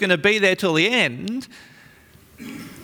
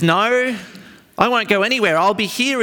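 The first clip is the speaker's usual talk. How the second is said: emphatic Peter; 4 semitones higher than usual. Retold or imitated. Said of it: "Peter famously is emphatic".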